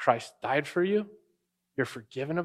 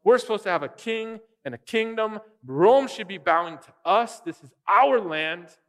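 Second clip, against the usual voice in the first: indignant claim; 3 semitones higher, 5 dB louder than usual. Retold or imitated. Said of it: "looking at the Old Testament going".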